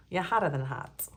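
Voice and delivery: lightly put-on old Hollywood actress lilt; a hint of a 1940s screen siren; old-timey movie actress. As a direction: purr it like a vintage film starlet. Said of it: "talking like those, like, old-timey movie actresses".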